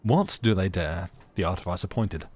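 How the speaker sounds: lightly voiced peasant French accent. Artificer pointing at the soldiers, French accent. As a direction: speak with a touch of a French accent. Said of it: "in his peasant French accent".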